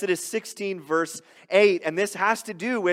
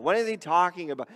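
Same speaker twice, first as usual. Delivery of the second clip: quick, lightly hammed-up grumble; grumbling voice; faster than usual. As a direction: imitate a crowd muttering complaints. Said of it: "That's my grumbling voice".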